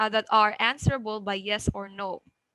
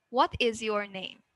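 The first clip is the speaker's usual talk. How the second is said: "What" raised, "name" falling; rising-falling question. Shown as a demonstration. Teacher models an open question, rising then falling. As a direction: start up on "What" and settle down on "name". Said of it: "rising, falling intonation".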